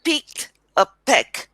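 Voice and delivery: put-on Indian-accented "Picked a peck", unpuffed p's; imitated Indian accent. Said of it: "This is how you're saying it".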